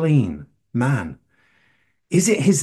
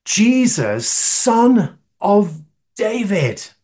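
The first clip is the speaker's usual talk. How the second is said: a slow, raised cry of each word; retold shout; 5 semitones higher, much slower than usual. Blind man calling out to Jesus, retold shout. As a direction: call it out, higher and drawn out. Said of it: "he shouts out".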